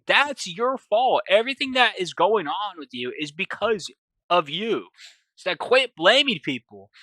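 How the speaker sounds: lightly acted telling-off; firm scolding. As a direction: drive the blame home. Captive keeps blaming captor.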